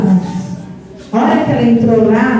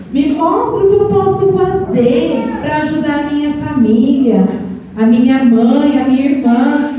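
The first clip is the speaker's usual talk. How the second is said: 1 pleading prayer; 3 semitones higher than usual. Acted. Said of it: "ela falou assim".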